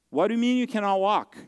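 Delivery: a father suddenly worried, pressing his son; alarmed question. Retold or imitated.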